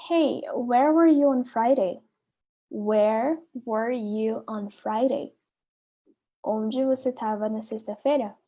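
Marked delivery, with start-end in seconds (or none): 2.7-5.3 very slow, word by word for learners; slow repeat. Shown as a demonstration. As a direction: spell it out slowly so they can repeat. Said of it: "A letra A fala assim". (devagar, palavra por palavra)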